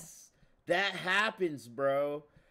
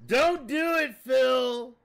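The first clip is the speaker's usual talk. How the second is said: higher and louder, warn him off; urgent shout; 6 semitones higher, 7 dB louder, slower than usual. Real, not acted. Streamer yelling at Phil not to reroll, urgent shout. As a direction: yell a warning at your friend.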